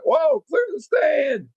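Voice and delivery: high, slowed yell to clear the way; warning shout. Retold or imitated. Soldier on the tank shouts for the crowd to clear the stand, high slowed yell. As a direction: bellow it high and drawn out so the crowd moves.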